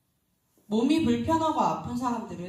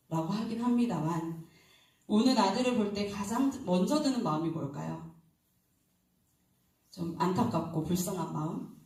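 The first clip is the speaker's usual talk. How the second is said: normal talking voice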